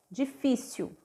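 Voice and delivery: soft echo of difícil; soft repeat. Shown as a demonstration. Teacher softly repeating difícil for the class. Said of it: "som de U".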